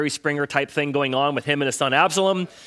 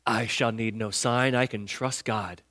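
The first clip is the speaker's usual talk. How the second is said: lower, slow, hammed-up kingly voice; mock bravado; 7 semitones lower, 6 dB quieter, slower than usual. King Ahaz tells the prophet he needs no sign, in a slow, low mock-bravado voice. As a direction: puff up like a scared king faking courage. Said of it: "tries to put on this big old bravado thing".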